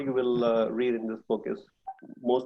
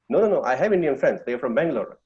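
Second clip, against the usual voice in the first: retold insistent protest; 3 semitones higher, 5 dB louder, faster than usual. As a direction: rattle off the no's like someone caught out. European insists he has Indian friends.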